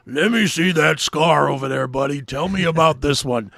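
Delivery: loud, lightly voiced buddy impersonation; a touch of someone else's voice, demanding to see; Philip. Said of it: "he's like".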